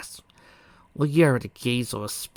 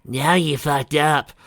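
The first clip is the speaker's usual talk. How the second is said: slow, louder, grave delivery; stern pronouncement; 4 semitones higher, 6 dB louder, slower than usual. Acted. Pinky in her royal voice, grave slow verdict. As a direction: lay down the verdict slowly. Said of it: "He bellowed".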